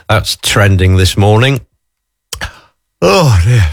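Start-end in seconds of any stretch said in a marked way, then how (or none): 3.0-3.7 talking through a yawn. Real, not acted. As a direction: stretch the words out in a yawn. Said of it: "Sorry, I'm just yawning".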